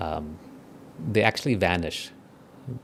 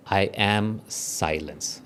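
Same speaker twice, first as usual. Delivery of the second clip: slow calm mantra; much slower than usual. Shown as a demonstration. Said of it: "Step number one".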